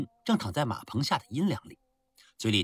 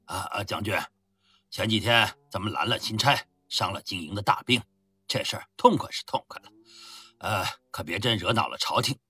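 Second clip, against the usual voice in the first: mumbling with a mouth full of mutton; marbles in mouth; 2 semitones lower than usual. Acted. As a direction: chew and mumble the words. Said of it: "一边含糊不清地说道". (嘴里塞满羊肉含糊地说)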